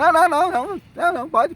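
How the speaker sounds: high, rushed string of não, imitating the girl; eager quick refusal. The girl brushing off the elders' appeal offer, eager and high. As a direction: wave off the offer in a hurry.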